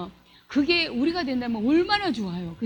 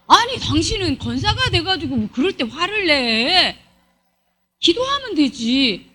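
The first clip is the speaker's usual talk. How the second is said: dismissive reproach. Acted. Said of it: "열받아요".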